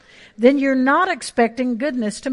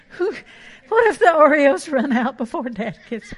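put-on fretting child. Voicing a worried child.

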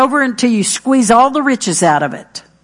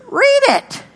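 much higher, snapped; sharp retort; 14 semitones higher than usual. Acted. Pastor answering an excuse, much higher and sharp. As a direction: fire back the answer.

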